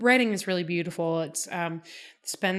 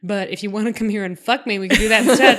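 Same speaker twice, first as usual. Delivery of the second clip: mock Claire; 4 dB louder than usual. Mock Claire dialogue, laughing end.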